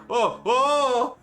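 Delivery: high, loud "oh!" cries; falling elf's cry. Acted. Game master voices a plummeting elf, alarmed cries.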